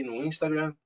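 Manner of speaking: "Instagram" said with an English accent. Real, not acted. Host listing his social networks, English accent slipping in. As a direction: slip into English pronunciation on "Instagram". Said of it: "a gente começa a pegar sotaques".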